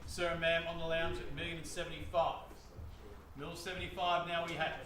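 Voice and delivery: lively auctioneer bid call; auction bid spotter. Real, not acted. Auctioneer calling bids.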